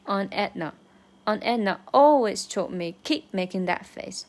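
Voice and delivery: "always" and "keep" pushed out; stress always and keep. Shown as a demonstration. Teacher shows which words to stress. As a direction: lean on "always", then hit "keep". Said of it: "这个always和keep要突出出来".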